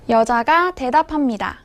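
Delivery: ordinary delivery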